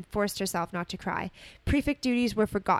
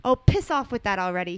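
shouting; 6 dB louder than usual. Acted. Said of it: "he shouted at her".

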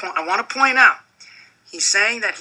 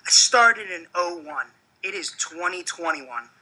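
wrestling promo; 3 dB quieter than usual. Acted. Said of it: "When you cut a promo, brother".

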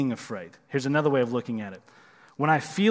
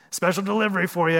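gravelly voice; 4 semitones higher, faster than usual. Retold or imitated. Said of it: "gravelly voice".

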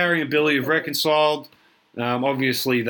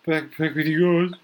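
Billy's voice; 5 semitones higher than usual. Retold or imitated. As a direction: stretch the words like a wistful old mate. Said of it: "He's like".

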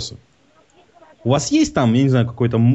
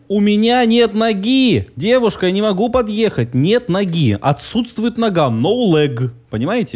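high, slow, shouted outrage; exasperated shout; 10 semitones higher than usual. Acted. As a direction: yell it as if they're deaf. Prankster acts outrage at operator.

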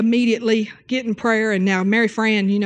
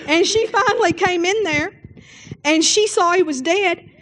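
normal talking voice

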